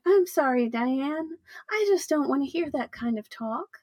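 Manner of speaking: lightly imitated high, prim-sounding voice; a hint of a put-on high voice, lifting at the end; high weird voice. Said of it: "She talks in this high, weird voice".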